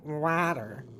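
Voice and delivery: "water" said slowly and carefully, forced open vowel; slow, effortful "water". Shown as a demonstration. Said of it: "when you try to say it normally, you have to go".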